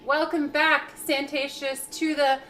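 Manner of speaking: pushed whisper, half shouting; whisper yelling. Real, not acted. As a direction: whisper but project it. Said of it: "I'm whisper yelling".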